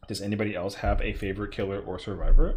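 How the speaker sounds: robotic, glitchy mic voice. Real, not acted. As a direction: sound like a robot through a bad mic. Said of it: "I sound like a robot".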